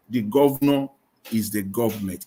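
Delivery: each word weighed and punched; emphatic. Real, not acted. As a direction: hammer home that the governor is the government. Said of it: "let me say it emphatically".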